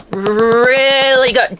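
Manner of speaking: "Really good" stretched out slowly; slow savoring. Shown as a demonstration. Reader praising the book, slow and savoring.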